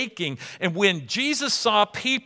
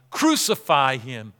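slow, low-pitched mock crowd cry; measured, emphatic imitation of a chanting crowd; 5 semitones lower, slower than usual. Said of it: "they cried out loudly".

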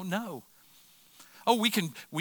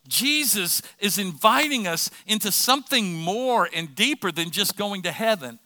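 raised, emphatic sermon delivery; impassioned preaching; 4 semitones higher, 5 dB louder than usual. Real, not acted. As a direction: preach it with conviction, leaning on key words. Preaches to congregation with force.

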